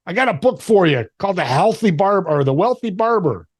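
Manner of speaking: a hint of an Italian mentor pitching a tip; Italian guy. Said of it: "he's an Italian guy".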